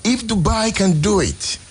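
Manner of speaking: rising to a pitched, drawn-out cry of what is wrong; exasperated plea to God. Retold or imitated. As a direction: cry out to God in frustration, slowly. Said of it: "I said".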